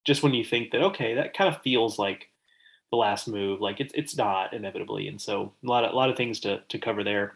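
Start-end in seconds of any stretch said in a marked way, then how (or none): 2.9-7.3 stuffy-nosed from a cold; congested, nasal speech. Real, not acted. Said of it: "excuse my nasally voice".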